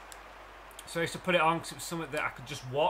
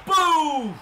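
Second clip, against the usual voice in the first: boom shout; 11 semitones higher, 10 dB louder than usual. Real, not acted. Big hit in the game.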